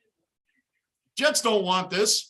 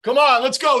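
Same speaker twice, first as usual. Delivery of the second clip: fan shouting; 6 dB louder than usual. Real, not acted. Fan yelling at televised game.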